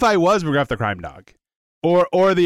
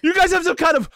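mock astonishment; 9 semitones higher than usual. Mock-amazed at a book club.

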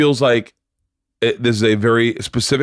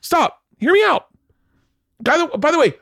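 pleading to be heard. Real, not acted. Arguing over being interrupted.

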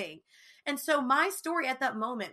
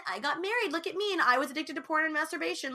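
mock boastful; 6 semitones higher, faster than usual. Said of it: "going around everywhere being like".

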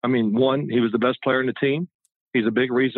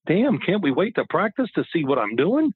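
higher-pitched mock protest, swooping intonation; exasperated protest; 4 semitones higher than usual. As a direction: plead with the coach in mock exasperation. Player protests coach's warning.

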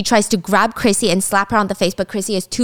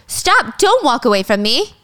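retold scream; 5 semitones higher, slower than usual. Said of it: "and she screams".

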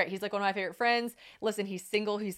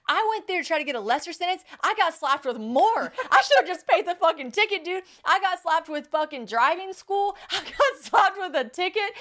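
outraged complaint; 8 semitones higher, 4 dB louder than usual. Real, not acted. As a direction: build in exasperated disbelief, stretching the key words. Outraged recap of harsher sentence.

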